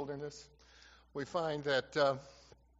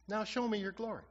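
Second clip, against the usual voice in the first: higher-pitched abrupt demand, falling at the end; 7 semitones higher than usual. Shown as a demonstration. Moses asking God to show his glory, abrupt. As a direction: make the request abruptly, pitched up. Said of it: "that abrupt".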